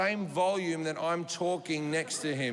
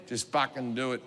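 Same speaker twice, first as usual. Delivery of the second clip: low gruff order; 8 semitones lower than usual. Retold or imitated. Billionaire demands.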